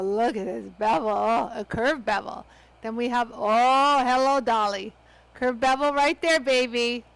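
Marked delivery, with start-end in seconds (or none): 3.3-7.0 delighted. Real, not acted. Thrilled at a curved bevel.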